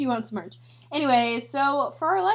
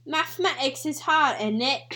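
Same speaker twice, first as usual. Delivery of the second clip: lightly put-on British accent; mild mock British with a tag question. Rendition of British people, light British accent. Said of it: "our renditions of British people".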